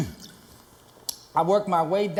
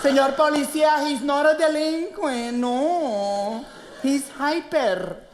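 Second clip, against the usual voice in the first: higher, slow pleading Latina mom; pleading mother; 5 semitones higher, slower than usual. Retold or imitated. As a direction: beg the officer like a worried mother. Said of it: "my mother comes in".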